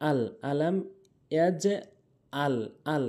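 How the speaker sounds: আল with a plain glottal onset; hamza for ain. Shown as a demonstration. Teacher repeating most people's mistake, plain আল. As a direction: say আল without any throaty ain. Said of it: "অধিকাংশ লোক হামজা এনে উচ্চারণ করে".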